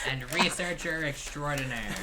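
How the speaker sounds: laughing through the words. Real, not acted. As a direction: say it while cracking up.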